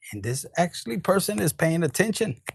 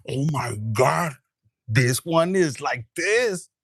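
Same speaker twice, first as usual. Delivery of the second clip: slow, drawn-out astonishment; hammed-up stunned reaction; mock awe; 3 dB louder, slower than usual. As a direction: stretch every word in acted amazement. Acts out viewer's amazed reaction.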